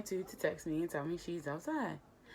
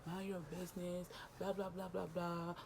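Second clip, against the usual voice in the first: quiet, fast, breathy brush-off; soft mock-dismissive murmur; dismissive hush; 2 semitones higher, 9 dB quieter than usual. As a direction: wave her off under your breath. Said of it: "And he like".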